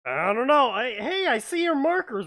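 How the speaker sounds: high, loud and lost; loud confused shout. Retold or imitated. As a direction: call out confused from far away. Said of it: "I'm like".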